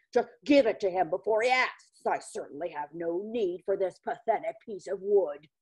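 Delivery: huffy, indignant grumbling; exasperated, fed up; disgusted. Acted. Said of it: "much to his disgust".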